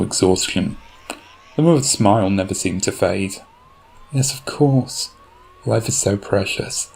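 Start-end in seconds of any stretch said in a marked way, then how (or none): 4.1-6.9 calm, faithful mother voice; lightly voiced mother. Mother answers serenely.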